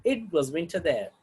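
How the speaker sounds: "It was winter there" with a falling close. Shown as a demonstration. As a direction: let "there" fall, finishing the statement. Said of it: "falling tone".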